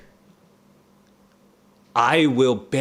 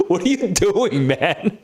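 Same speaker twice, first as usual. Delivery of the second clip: exasperated disbelief; 7 semitones higher than usual. Real, not acted. Exasperated at Hamlet's behavior.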